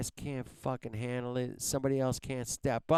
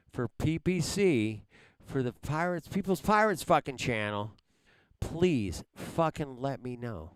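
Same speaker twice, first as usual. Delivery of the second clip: angry rant. Real, not acted. Streamer yelling at chat for help, angry and raised. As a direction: berate the chat for not helping.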